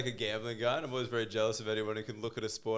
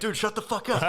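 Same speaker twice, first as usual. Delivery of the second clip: mock doctor; 9 semitones higher, 4 dB louder than usual. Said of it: "The doctor's like".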